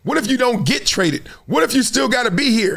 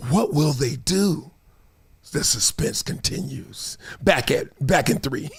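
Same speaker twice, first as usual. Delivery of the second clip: put-on old-time TV announcer; 7 semitones lower, 5 dB quieter than usual. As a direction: play up the suspense in a low broadcaster voice. Old TV suspense tease, acted out.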